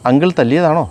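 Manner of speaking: a touch of a break in the voice, asking; lightly voiced, halting and shaken question; faltering voice. A narrator's reading. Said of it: "അവൾ ഇടറിയ ശബ്ദത്തിൽ ചോദിച്ചു".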